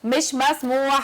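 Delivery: drawn-out, deliberate no; slow firm refusal. Acted. Host refusing the guest, slow and firm. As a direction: stretch each word, refusing flatly.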